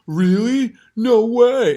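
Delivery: high, loud mock surprise; mocking Joe impression. Comic imitating Joe Rogan's fake shock. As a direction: gasp it like a gullible host. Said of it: "Joe's gonna go".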